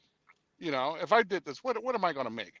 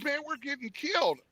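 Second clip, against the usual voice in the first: buddy's voice; 10 semitones higher than usual. Retold or imitated. Buddy's voice in retold call.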